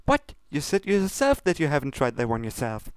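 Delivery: high, breezy pony reply; Pinkie Pie voice. Acted. Pinkie brushes off Luna's complaint, high and breezy. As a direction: wave it off lightly.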